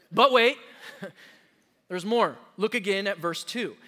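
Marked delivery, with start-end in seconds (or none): 0.1-2.4 louder, punchier TV-pitch call; hammed-up late-night ad host; mock infomercial announcer with a laugh; infomercial line. Shown as a demonstration. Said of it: "You like those commercials?".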